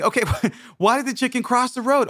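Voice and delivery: high-pitched, laughing joke-teller; mock giggly setup of a joke; giggling sister. Sister asking her brother the riddle, giggling. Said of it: "she's just telling me".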